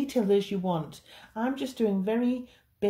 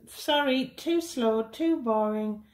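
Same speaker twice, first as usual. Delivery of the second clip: higher, slow mock whine of impatient viewers; mock complaining viewers; 3 semitones higher, slower than usual. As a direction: drag it out like a bored viewer moaning. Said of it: "I have a lot of people saying".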